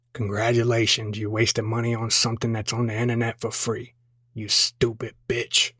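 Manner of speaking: a hint of a bitter husband sneering; lightly voiced grumpy husband. Grumpy husband insulting his wife.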